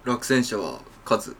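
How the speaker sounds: low, clipped soccer-manager press voice; Coach Okada impression. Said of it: "ちょ、やってもらってもいいですか？".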